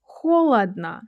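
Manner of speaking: холодно said KHO-lad-na; холодно, stressed first o, then reduced vowels; only first o full. Shown as a demonstration. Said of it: "only the first one sounds like O".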